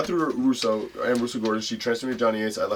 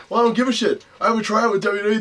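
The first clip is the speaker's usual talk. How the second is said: retold defiance; 11 semitones higher, 6 dB louder than usual. Retold cocky defiance to manager.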